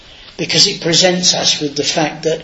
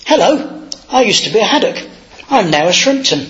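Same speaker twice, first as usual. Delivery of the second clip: bright surprised greeting; 5 semitones higher than usual. Retold or imitated. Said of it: "I said".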